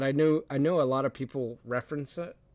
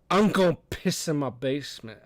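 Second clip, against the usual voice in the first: lightly imitated drunk guy; a hint of drunken announcing; mock drunk. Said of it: "got really drunk and said".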